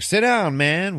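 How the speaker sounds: high, loud, drawn-out call; sudden loud greeting. Retold or imitated. Villain startles his victim at home.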